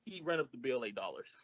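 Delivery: under the breath, unvoiced; whispered aside. Costello whispering the punchline to Abbott. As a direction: slip it in as a sly whisper.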